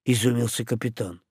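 plain reading voice

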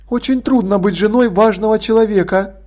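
mildly reproachful lady sigh; a gentle dig at her husband; light reproach. Acted. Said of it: "с лёгким упрёком".

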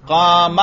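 "قام" with a short final a, no long alif; alif dropped. Shown as a demonstration. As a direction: say "قام" as qaama, ending short. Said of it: "الف کو ختم کر دو". (آخری الف کے بغیر "قام")

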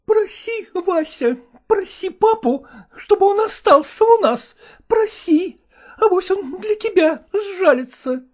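high, teary wife's voice; tearful pleading. Acted. Mother urging her son to beg his father to stay, tearful. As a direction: plead through tears. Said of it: "бормотала она".

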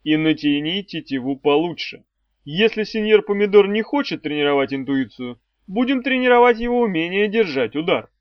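emphatic stern trainer voice; menacing mentor. A narrator's reading. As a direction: threaten the pupil with sardonic authority. Voices Arey's threatening order.

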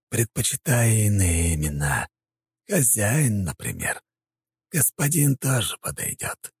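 slow, mocking villain voice; sly puppeteer. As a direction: toy with him smugly. Puppeteer speaking through prince.

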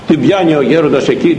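ordinary delivery

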